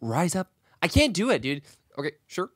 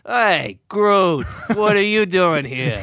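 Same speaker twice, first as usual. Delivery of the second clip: Rocket voice; slower than usual. Retold or imitated. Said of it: "that's Rocky".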